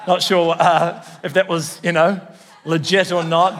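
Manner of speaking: chuckling through the words; laughing. Real, not acted. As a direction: laugh it off lightly. Joke about walking on palms.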